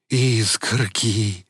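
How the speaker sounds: slow, drawn-out dazed voice; dazed simple voice. Acted. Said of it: "снова сказал Велес".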